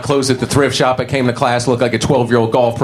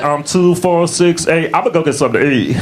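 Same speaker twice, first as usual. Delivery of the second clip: half-hearted cheerleader; 5 semitones higher than usual. Acted. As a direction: chant a cheer, then give up. Acts out lazy cheerleader chant.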